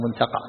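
منتقع with "a" after the qaf, "muntaqaʕ"; open vowel on qaf. Shown as a demonstration. Sheikh showing student the vowel, منتقع as "muntaqaʕ". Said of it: "على هذا تكون مفتوحة".

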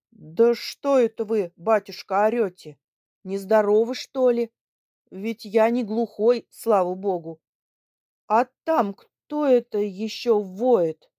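put-on loud, gruff, indignant old man; astonished and angry. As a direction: scold the shouting guest. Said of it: "сказал мне с изумлением и с сердцем". (с изумлением и сердцем)

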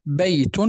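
"بيت" ending in -tun; damma tanween. Shown as a demonstration. Teacher showing what tanween is, damma tanween. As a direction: sound the final -un of "بيت". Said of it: "هذا هو ما يسمى بالتنوين".

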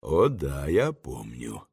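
low, soft, unhurried phone voice; a calm stranger answering from far away. A narrator's reading. The voice on the phone answers Varenukha, low and soft.

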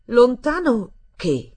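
high, loud, drawn-out echo of a question; slow-witted air. A narrator's reading. Stella answering the boy's question, with a sluggish air. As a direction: repeat it slowly, as if dim. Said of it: "fece con un'aria tarda".

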